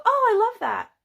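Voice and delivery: high, loud, gushing enthusiasm; overexcited. Retold or imitated. Faking love to keep their excitement alive, overexcited. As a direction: gush as if something has taken over. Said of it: "something takes over my body".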